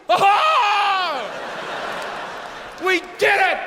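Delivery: high, hammed-up gasp of delight; mock surprise. Comic mimics concertgoers acting surprised at the encore, high and gleeful. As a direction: play the crowd's fake astonishment.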